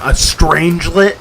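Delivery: slow "strangelet", strange-let; careful pronunciation. Shown as a demonstration. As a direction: repeat "strangelet" slowly and deliberately. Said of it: "I pronounce it like a normal human".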